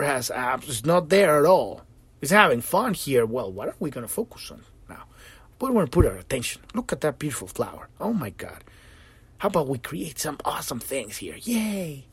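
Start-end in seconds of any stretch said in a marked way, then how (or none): 3.2-11.3 softer, quicker curious voice; soft playful musing. Retold or imitated. 11.4-12.1 high, soft little cheer; mock cheer. Observer cheering at creation.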